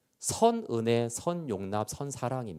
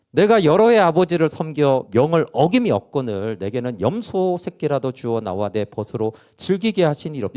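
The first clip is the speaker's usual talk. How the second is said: arguing back; 5 dB louder than usual. Retold or imitated. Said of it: "이거 따지는 거 아닌가".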